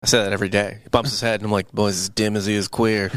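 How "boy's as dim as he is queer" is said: put-on St Louis accent. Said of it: "I do it in a Saint Louis accent".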